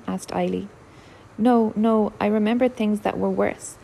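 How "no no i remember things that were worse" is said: firm and insistent, higher and louder on no, no. Acted. Peggy firmly assuring her worried sister she is not afraid. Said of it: "said Peggy firmly".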